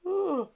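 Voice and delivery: a real, high drawn-out yawn; big yawn. Real, not acted. Crafter yawning mid-video to her viewers, real yawn. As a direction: let a massive yawn escape mid-sentence. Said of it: "I just yawned".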